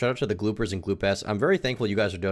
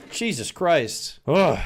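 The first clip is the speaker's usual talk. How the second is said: shocked disgust; 8 semitones higher, 5 dB louder, much slower than usual. Real, not acted. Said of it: "reacting to assault story".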